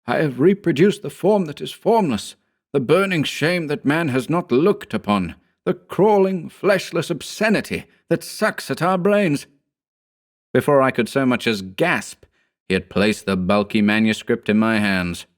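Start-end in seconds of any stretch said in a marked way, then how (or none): 0.1-9.4 high, ecstatic cry; cried out. A narrator's reading. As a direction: declaim it like a feverish prophet. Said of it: "he cried".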